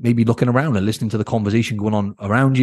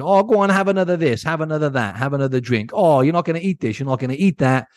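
a lightly voiced pushy mate, higher, coaxing; pushy friend; 5 semitones higher than usual. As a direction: tempt them like a friend pushing drinks. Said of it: "sometimes you're gonna get peer pressure".

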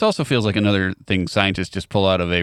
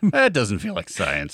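bear voice; slower than usual. Pretend. Continues the bear voice.

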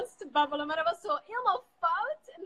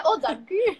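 louder, higher repeat of the thanks; louder thanks with a slight lift; 4 semitones higher, 9 dB louder, slower than usual. Real, not acted. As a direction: say it again so they hear it. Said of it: "Ik zei".

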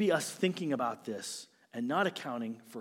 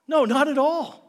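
loud, high, forceful denial; a ringing pulpit no; emphatic no; 11 semitones higher, 10 dB louder than usual. Real, not acted. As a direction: shut the idea down hard.

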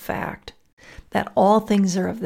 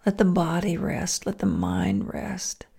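guided meditation. Acted.

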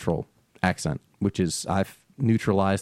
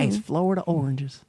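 hammed Jersey accent; 8 semitones higher than usual. Shown as a demonstration. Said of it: "You're right".

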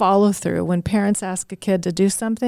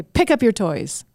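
edgy. Shown as a demonstration. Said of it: "that's got some edge to it".

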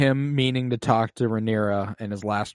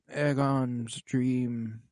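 dying king; 4 dB quieter, much slower than usual. Retold or imitated. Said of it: "he's like".

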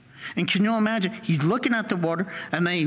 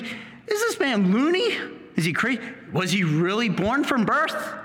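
lightly voiced nosy neighbours; gossipers; 3 semitones higher than usual. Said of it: "The gossipers".

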